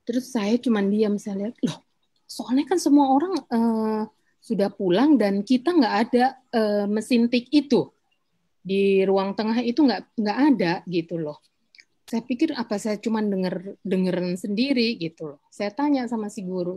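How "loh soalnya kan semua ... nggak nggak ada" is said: retold alarmed exclamation. Telling the teacher the typewriter isn't even there, retold startled outburst. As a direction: relive the shock of hearing a typewriter that isn't there. Retells her alarm at hearing typing.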